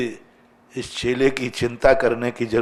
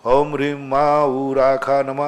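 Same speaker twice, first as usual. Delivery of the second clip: slow, evenly intoned mantra; mantra recitation; slower than usual. Acted. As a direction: recite it slowly as a disciple doing japa. Acts out disciple reciting mantra. (धीमे, सम स्वर में मंत्र-जाप)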